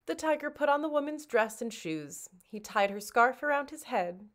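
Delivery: plain reading voice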